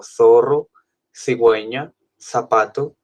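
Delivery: teacher models the Spanish th sound in zorro, cigüeña and zapato; Castilian lisped z. Shown as a demonstration. Teacher shows students the Spain th for z and c. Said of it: "que les diga como".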